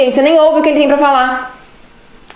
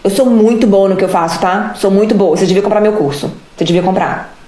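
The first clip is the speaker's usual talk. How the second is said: lower, smug self-praise; mock boastful sales pitch; 5 semitones lower than usual. Shown as a demonstration. Coach mocking a pushy seller pitching her course, smug. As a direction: brag about herself like a pushy seller. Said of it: "Não adianta eu falar pra vocês".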